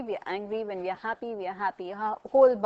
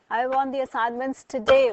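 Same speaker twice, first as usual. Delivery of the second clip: demonstrated angry insistence, louder on TODAY; emphatic, angry demand; 6 dB louder than usual. Shown as a demonstration. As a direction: insist firmly, punching the last word. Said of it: "that means I'm emphatic".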